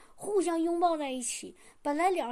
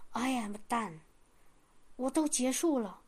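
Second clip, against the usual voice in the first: inner spirit voice; 3 semitones lower, 6 dB quieter than usual. Retold or imitated. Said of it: "灵里面有一个声音就说".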